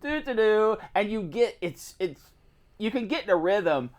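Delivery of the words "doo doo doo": zoned-out humming. Retold or imitated. Imitates mindless humming at the cutter.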